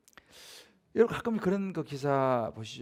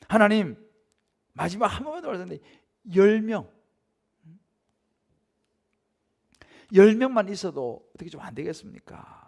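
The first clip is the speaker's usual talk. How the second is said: pleading Abraham; 3 semitones higher, 7 dB louder than usual. Acted. Abraham bargaining with God.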